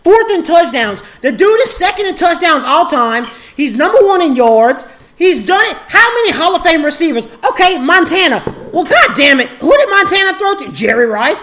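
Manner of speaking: loud, fired-up rant about Brees; heated argument. Real, not acted. Defending Brees to his friend, loud and heated.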